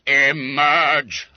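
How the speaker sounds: loud, stern single-word command; thundering. Acted. Master thundering at the hiding boy, loud stern command. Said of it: "thundered Mister Quelch".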